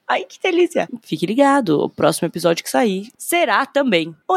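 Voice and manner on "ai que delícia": laughing. Real, not acted. Laughs with delight.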